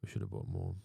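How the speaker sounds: whispered lament. Pretend. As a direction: breathe it out unvoiced.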